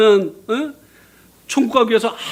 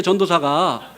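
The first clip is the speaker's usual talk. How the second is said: usual speaking voice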